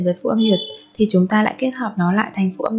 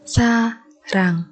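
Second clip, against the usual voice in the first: whispered drill; slower than usual. Shown as a demonstration. Teacher to students, whispered slow repeat. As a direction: breathe the word out like a secret. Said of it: "teacher repeats word".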